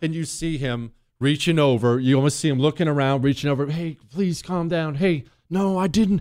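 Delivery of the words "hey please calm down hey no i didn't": mock desperate calm, higher and slower. Describing a couple arguing in public, the speaker plays the man trying to settle her down, in an imitated desperate calm. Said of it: "Get mad at him and get loud".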